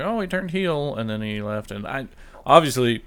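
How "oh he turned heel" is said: high, gasping mock realization; mock surprise. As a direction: act the shocked fan. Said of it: "And it was like".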